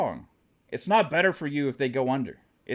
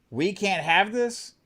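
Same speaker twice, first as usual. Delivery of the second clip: slow, higher, disbelieving question; incredulous echo; 5 semitones higher, slower than usual. Real, not acted. Streamer throws haters' words back, slow incredulous question.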